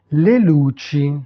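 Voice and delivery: "le luci" said firmly and distinctly; Italian pronunciation demo. Shown as a demonstration. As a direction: model "le luci" for learners. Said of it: "prononcer les mots". (prononcer « le luci » distinctement à l'italienne)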